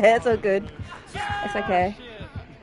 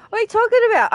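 incredulous; 9 semitones higher, much faster than usual. Real, not acted. Incredulous question.

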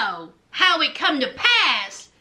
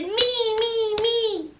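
Lindsay fussing; 4 semitones higher than usual. Retold or imitated. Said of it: "she's still fussing".

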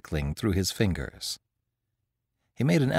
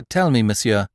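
cried out; 5 dB louder than usual. Acted. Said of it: "cried Beautrelet".

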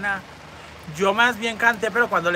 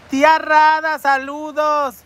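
calling out; 8 semitones higher, 6 dB louder, much slower than usual. Real, not acted. Calling out a greeting.

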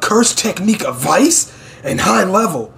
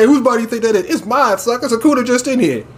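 higher-pitched mock bravado; acted taunt; 6 semitones higher, faster than usual. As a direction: play a cocky retort, pitched up. Acting out a defiant taunt.

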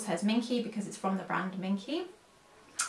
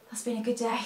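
whisper. Real, not acted. Sleepy aside after waking early.

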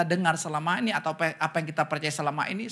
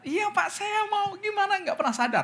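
mimicking a naive churchgoer; 14 semitones higher than usual. Meniru jemaat polos bertanya.

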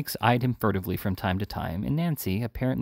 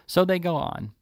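higher-pitched, indignant repeat; wrath rising; 10 semitones higher, 4 dB louder than usual. A narrator's reading. Sykes recalling his wrongs, wrath rising. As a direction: let the grievance flare up suddenly. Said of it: "his wrath rising with the recollection".

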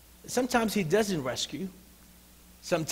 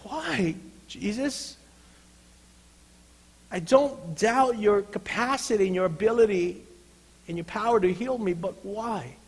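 pained questioning; 3 semitones higher than usual. Acted. Paul asking Jesus why, pained and questioning. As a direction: ask why in a raised but unforced voice. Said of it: "Can you just imagine Paul asking".

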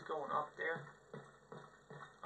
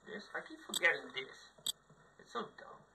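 whisper; 5 dB quieter than usual. Real, not acted. Quiet aside during match.

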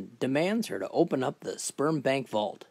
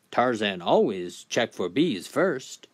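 simple Tarzan; slower than usual. Acted. Tarzan explains himself.

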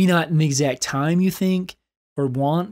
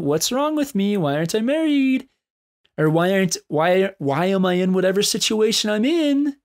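whiny self-pity; 5 semitones higher than usual. Pretend. Voicing self-pitying inner questions.

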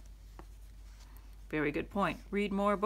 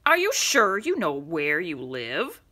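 mocking driver; 3 semitones lower, 5 dB louder than usual. Driver mocks the boy.

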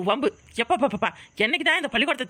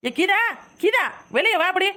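calling the neighbour out of her house, raised and higher; 4 semitones higher than usual. Acted. Angry mother calls Geetha out of her house, raised call. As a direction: shout her name to bring her out.

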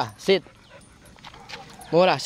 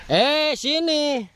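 slow, drawn-out, higher coaxing call; 5 semitones higher, much slower than usual. Real, not acted. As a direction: stretch it out to lure the dog. Calling the dog over. (memanggil dengan lembut dan lambat)

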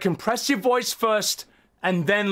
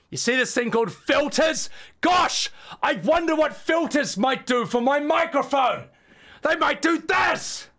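sarcastic hype; 4 semitones higher than usual. Acted. Sarcastic demo of filters.

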